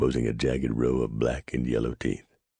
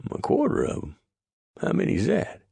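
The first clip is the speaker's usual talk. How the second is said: much higher, startled question; astonished. Acted. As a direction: squeak out the question in disbelief. Clyde astonished at the offer.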